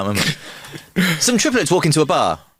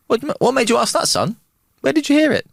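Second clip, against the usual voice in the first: high-pitched comic foreign dad; Borat; 11 semitones higher than usual. Acted. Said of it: "And his dad's Bar-, Borat".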